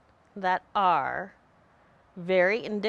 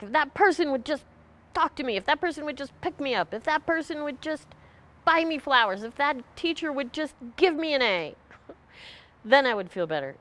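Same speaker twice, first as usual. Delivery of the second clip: mock bully demand; 6 semitones higher than usual. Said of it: "we play a bully role. We're really angry".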